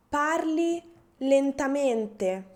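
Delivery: slow, carefully spaced Italian request; slowly. Shown as a demonstration. Teacher modelling a polite request, slow and deliberate. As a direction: spell out each word slowly for a learner. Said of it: "ask people to talk slowly".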